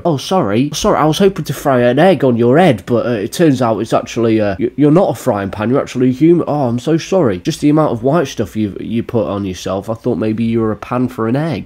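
lightly voiced apologetic egg thrower; mock apology. Egg thrower explaining himself to the streamer, mock apologetic. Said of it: "this guy just to sit there and go".

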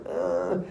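low, soft unvoiced "uh" of disdain; disdainful grunt. Queen balking at the rain, disdainful grunt.

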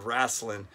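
"wrestling" as RASS-lin; folksy "rasslin". Shown as a demonstration. Quoting his coach buddy's favorite word, "wrestling" said RASS-lin. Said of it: "that word wrestling".

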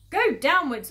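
loud, high-pitched command; urgent, forceful call; commanding order. Acted. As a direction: order the family firmly. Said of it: "ordered Mister Fox".

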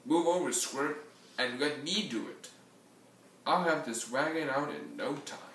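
lightly voiced brash dismissal; snorting billy goat. Billy goat shoving the schnauzer aside, mildly scornful snort. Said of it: "looked at the schnauzer and snorted".

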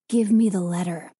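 insist, leave no room for refusal; firm demand. A narrator's reading. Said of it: "Danny demanded more firmly".

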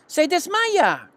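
high, slow alarmed cry; frightened girl. A narrator's reading. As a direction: panic as the pig faints. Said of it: "chilló Fern".

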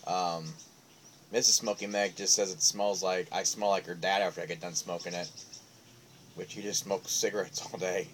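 talking around pipe stem; pipe in mouth. Real, not acted. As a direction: lips clenched on pipe. Seen 0: Pipe stem held between lips throughout while talking.

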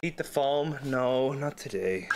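low slow goofy voice; deep silly voice. Acted. Deep put-on voice, then refusal.

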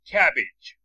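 کبیج said with a short ij ending; student's example. Retold or imitated. Teacher retells a student's cabbage example, ending ij. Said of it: "یکی گفت".

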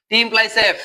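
T implies F read very slowly, each symbol apart; slow spelled-out reading. Shown as a demonstration. Teacher dictating to online class, very slow. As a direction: dictate T implies F for students to copy. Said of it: "teacher reads expression slowly".

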